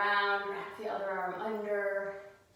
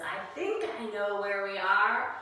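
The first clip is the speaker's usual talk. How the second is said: higher and louder, an unsure little cat; cat's voice; 5 semitones higher, 4 dB louder than usual. Acted. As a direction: rise up into a hesitant cat voice. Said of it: "Cat sees the lion and says".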